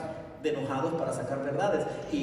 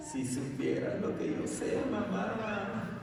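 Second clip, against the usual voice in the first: teasing whisper; 6 semitones higher, 6 dB quieter, much slower than usual. Acted. Child teasing mother.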